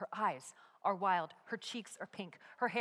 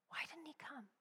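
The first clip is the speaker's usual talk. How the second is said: whisper; 4 semitones higher, 14 dB quieter, faster than usual. Acted. Dark doubting voices in crowd.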